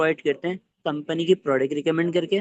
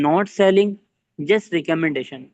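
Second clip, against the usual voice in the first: not selling louder, just recommendation very slow; contrast stress; 4 dB louder, much slower than usual. Shown as a demonstration. Trainer to team, stressing recommending not selling, slow. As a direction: punch selling, then stretch recommendation. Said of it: "just रिकमेंड करनी है".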